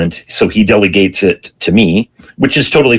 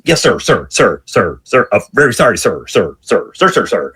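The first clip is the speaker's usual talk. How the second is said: imitated grovelling subordinate; placating yes-sirs. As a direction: run of repeated, appeasing sirs. Back to placating chief on phone.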